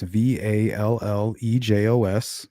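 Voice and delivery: slow, deliberate letter by letter; slow spelling. Shown as a demonstration. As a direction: spell it out slowly. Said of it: the speaker giving their own name.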